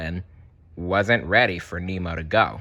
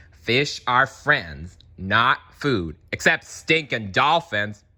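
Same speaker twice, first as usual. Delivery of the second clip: reciting shark pledge; 2 semitones higher than usual. Shown as a demonstration. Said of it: "see if I can get it right".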